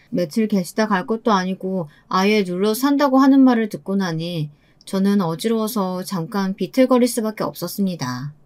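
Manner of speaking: usual speaking voice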